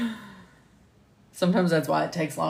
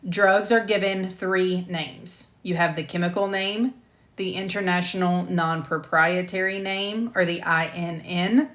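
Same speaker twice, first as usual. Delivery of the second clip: clear, measured e-learning voice-over; lecture narration; 2 semitones higher, 3 dB louder than usual. Acted. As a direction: present it like a recorded course module.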